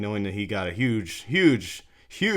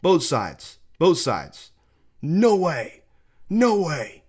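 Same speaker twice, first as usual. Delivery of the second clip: high, raised-voice imitation of batter; acted protest; 7 semitones higher, 5 dB louder, much slower than usual. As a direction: protest emphatically as the outraged batter. Acts out batter shouting at umpire.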